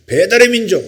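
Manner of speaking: high, loud chanted reply; group shout. Retold or imitated. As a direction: shout the slogan like a whole group answering. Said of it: "우리가 일제히 주목을 주고 외쳤습니다".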